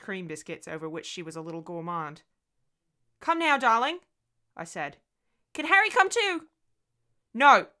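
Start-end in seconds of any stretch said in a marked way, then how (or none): 3.2-4.0 raised, higher motherly call; coaxing call. Acted. Mother calling her daughter in again, coaxing call. 5.5-6.5 put-on high, loud child's voice; little girl asking. Daughter asking to bring her invisible friend, little-girl plea. 7.3-7.7 sudden loud, higher outburst; harsh cry. A narrator's reading. Mother refusing the imaginary friend, harsh cry. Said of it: "The cry burst from me harshly".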